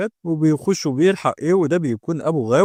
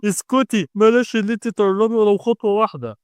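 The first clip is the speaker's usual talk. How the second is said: higher-pitched stern warning; tense, raised-pitch command; sharp warning; 6 semitones higher, 3 dB louder than usual. A narrator's reading. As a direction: order them to keep back. Possessed brother warns sister away.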